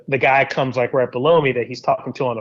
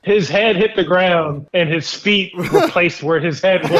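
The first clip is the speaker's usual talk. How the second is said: laughing; 4 semitones higher than usual. Real, not acted. Laughing while telling.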